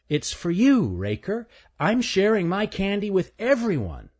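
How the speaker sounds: put-on high, halting young voice; stuttering squirrel voice. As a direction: stammer through it nervously. Stanley voiced.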